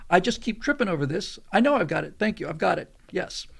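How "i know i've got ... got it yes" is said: retold testy brush-off; irritated snap. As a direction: cut off the help with mild impatience. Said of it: "I actually lost my temper".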